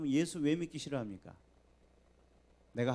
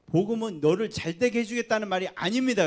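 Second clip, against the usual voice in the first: ordinary talk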